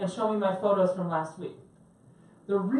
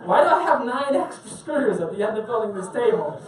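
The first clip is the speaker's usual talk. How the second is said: laughing; 5 dB louder than usual. Acted. Joking about ikea extra screws.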